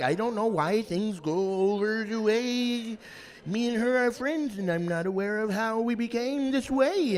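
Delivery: slow, stiff proper voice, lightly mocked; lightly mocks a stiff, proper manner of speaking; mock proper speaker. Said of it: "And you're like".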